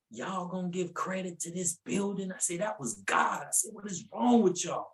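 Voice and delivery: yelled rant. Retold or imitated. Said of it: "I yelled it out".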